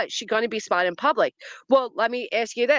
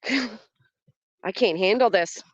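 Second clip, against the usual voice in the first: laughing; much slower than usual. Real, not acted. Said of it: "I think you're funny".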